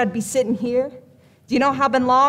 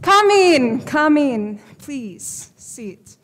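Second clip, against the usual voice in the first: fake Eastern European accent; much slower than usual. Fortune teller ushering in a client, Eastern European accent. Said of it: "What happened to your accent?".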